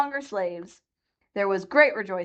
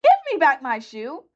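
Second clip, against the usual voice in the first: raised, louder angry demand for her shoe; little girl demands her shoe back, angry and raised; 7 semitones higher, 5 dB louder than usual. A narrator's reading. Dorothy demanding her shoe back from the witch, angry. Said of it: "grew angry and said".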